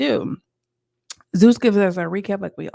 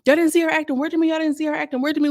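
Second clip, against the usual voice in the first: mimicking Seacon; 8 semitones higher, faster than usual. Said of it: "Seacon was like".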